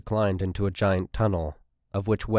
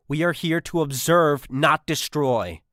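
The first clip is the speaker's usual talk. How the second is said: pleading; 7 semitones higher, 4 dB louder than usual. A narrator's reading. Miranda pleads.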